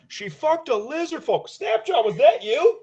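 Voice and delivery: high, slow call over a crowd. Acted. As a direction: shout it across the room. Mao calls over the crowd.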